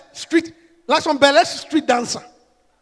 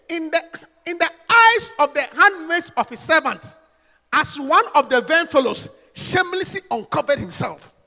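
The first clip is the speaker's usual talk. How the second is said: sarcastic; 3 dB louder than usual. Acted.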